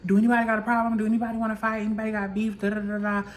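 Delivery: loud-starting, run-on callout; retold challenge. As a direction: throw out a mock challenge to the room.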